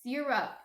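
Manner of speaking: "syrup" said as SEER-up; Jersey pronunciation. Shown as a demonstration. Insisting to the guys on her word, "syrup" as SEER-up. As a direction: open "syrup" on a long, stressed ee. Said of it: "It's not syrup".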